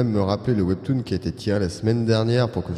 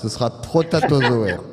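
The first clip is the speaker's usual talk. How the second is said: cavernous voice. Acted. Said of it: "la réverb dans la voix".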